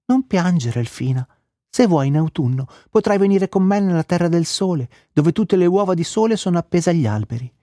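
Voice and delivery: lightly voiced gentle bird offering comfort; gentle thrush. A narrator's reading. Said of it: "un tordo gentile le disse".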